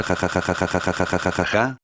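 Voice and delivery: soft read-out ja ja ja, barely laughing; understated crazed cackle; mild mad laugh. A narrator's reading. Olmigas gloating over the dead villain, mild crazed laugh. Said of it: "empezaba a reír como loco".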